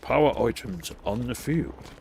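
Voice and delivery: slow announcer voice echoing the game; mimicking announcer. Echoing the game announcer's callout to his stream, slow announcer voice. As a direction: repeat it like the game's narrator, slowly.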